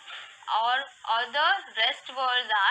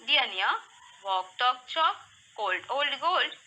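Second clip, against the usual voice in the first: rhyming words in quicker groups, short pauses between; faster read-aloud. Shown as a demonstration. Teacher drilling rhymes with kids, a bit faster. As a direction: run each rhyming set together, then pause briefly. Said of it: "we are going to read it faster".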